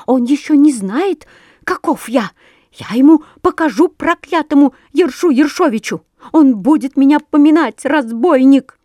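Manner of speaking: loud, high, fast enraged sparrow; furious yelling. A narrator's reading. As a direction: rage breathlessly at the ruff. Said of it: "орал Воробей Воробеич, задыхаясь от ярости".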